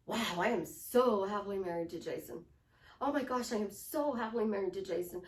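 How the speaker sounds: emphatic, awed gushing with stretched "so"; gushing happiness. Shown as a demonstration. Coach modelling a grateful wife's energy, gushing. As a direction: gush with heartfelt amazement. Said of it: "Notice that energy".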